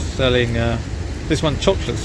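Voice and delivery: talking loud over a racket. Real, not acted. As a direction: project over background noise. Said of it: "sorry about the noise".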